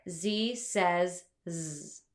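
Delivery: first Z named zee, last Z buzzed zzz; slow, spaced Z says Z, ending in a buzz; name the first Z, buzz the last Z; letter and sound. Shown as a demonstration.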